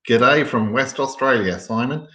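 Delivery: light mock Australian accent, slowed; a playful put-on Australian twang, drawn out. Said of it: "Did you like my Australian accent?".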